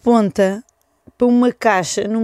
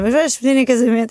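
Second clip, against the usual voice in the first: lightly teasing question, pitched up; retold joking dig at a partner; 4 semitones higher than usual. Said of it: "Tipo assim, a gozar".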